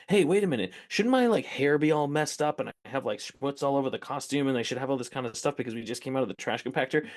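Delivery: lightly voiced anxious newcomer; young Mark Hamill asking. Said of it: "he turned and was like".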